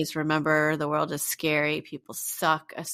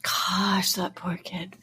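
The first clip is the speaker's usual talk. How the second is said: whispering; much slower than usual. Real, not acted. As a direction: breathe it out in shock. Shocked by the murder case.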